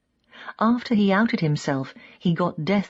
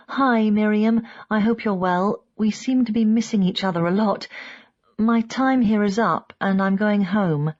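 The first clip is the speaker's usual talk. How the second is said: slightly lifted, polite voicemail greeting; phone message voice; 3 semitones higher than usual. A narrator's reading. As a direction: leave a message for a friend, pitched up a little. Leaving an answering machine message.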